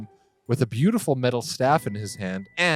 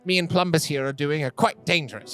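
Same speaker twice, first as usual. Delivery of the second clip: put-on a proud old man insisting he is fine; old gnome voice; 7 semitones higher than usual. Grandpa defending himself to his granddaughter, indignant. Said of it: "he's like".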